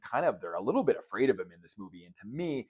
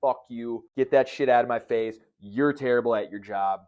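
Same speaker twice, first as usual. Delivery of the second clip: mock angry yell; 6 dB louder than usual. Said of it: "just yelling".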